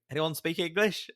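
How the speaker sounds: slow, loud Brit abroad voice. Retold or imitated. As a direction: spell it out loudly for foreigners. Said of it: "that was very kind of Brit abroad vibe".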